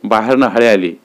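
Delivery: ordinary delivery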